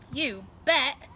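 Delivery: put-on a loud eager kid's shout; eager yell. A narrator's reading. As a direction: shout it back keenly. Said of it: "yelled Lester".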